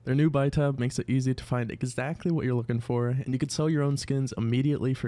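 brisk sponsor read. Acted. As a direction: read it like an upbeat ad spot.

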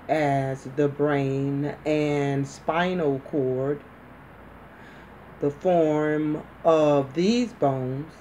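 slow, evenly paced dictation reading; medical dictation. Shown as a demonstration. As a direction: read in phrases with steady pauses. Reads shorthand dictation passage.

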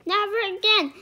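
loud, high, emphatic outburst; shouted refusal. A narrator's reading. King Arthur refusing the quest, shouting. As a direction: pound out each word. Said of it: "shouted King Arthur, pounding his fist".

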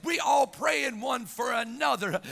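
forceful, driving church sermon delivery; impassioned preaching. Real, not acted. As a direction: preach it with mounting urgency to the congregation.

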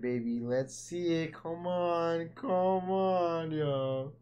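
rising, eager plea; excited urging. Real, not acted. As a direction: come on, come on. Urging on the reveal.

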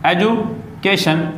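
एजुकेशन said slowly, each syllable drawn out; slow, clear teacher's repeat of एजुकेशन. Shown as a demonstration. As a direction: stretch एजुकेशन out for the class to copy. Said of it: "क्या कहा आपने?".

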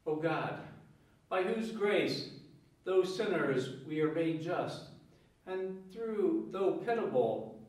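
measured, solemn prayer voice; liturgical prayer. Acted. Priest prays the collect.

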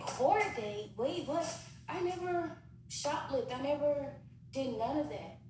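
I never did that, way up high; outraged denial. Retold or imitated. Denying shoplifting charge.

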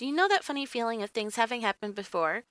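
ordinary delivery, nothing marked

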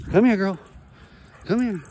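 high, bright call to the dog. Real, not acted. Owner calling his dog back, high and bright. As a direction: call her in cheerfully.

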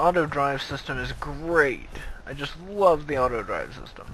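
dry sarcastic praise. Real, not acted. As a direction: say it with mock enthusiasm. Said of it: "I'm being completely sarcastic by that".

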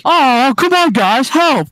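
high, drawn-out whiny appeal; put-on helpless plea; mock pleading. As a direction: beg your friends in a high voice. Character left behind begs friends.

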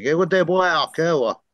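imitating a mother scolding; mom's scolding. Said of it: "she got mad at me".

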